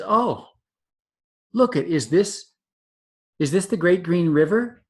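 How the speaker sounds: lightly voiced excited young elephant; eager baby elephant. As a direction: play the curious baby elephant.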